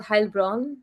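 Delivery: Heilbronn said as "HILE-bron"; correct German pronunciation. Shown as a demonstration. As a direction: say the "ei" in Heilbronn like English "eye". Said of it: "A usually pronounced".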